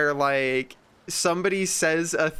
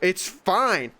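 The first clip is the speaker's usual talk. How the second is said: rising higher with each it's fine; dismissive mock; 5 semitones higher, slower than usual. Hot micer waving off complaints, mock dismissive. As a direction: brush it off, higher every time. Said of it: "the people that insist on, like".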